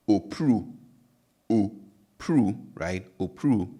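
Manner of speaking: opru said firmly with a pure O; Twi word opru repeated. Shown as a demonstration. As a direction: have the class repeat opru. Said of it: "So it's".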